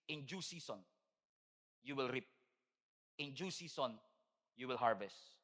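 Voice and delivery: hushed Bible verse; scripture reading. Acted. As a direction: read the verse gently as a promise.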